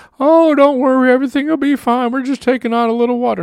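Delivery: weird, goofy put-on voice, very high. Speaker imagining themselves as captain of a sinking ship, in a weird voice. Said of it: "that wasn't a weird voice that I just used".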